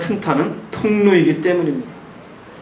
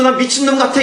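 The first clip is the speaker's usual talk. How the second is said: higher, half-mad self-talk; mock frantic confession; 7 semitones higher than usual. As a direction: act out someone half out of their mind. (반쯤 미친 듯 높은 목소리로)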